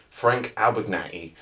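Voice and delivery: "Abagnale" tried slowly, ending in "-nat-ee"; slow, unsure stab at "Abagnale" as "Abag-natty"; unsure pronunciation. Real, not acted. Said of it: "How do you pronounce his fucking name?".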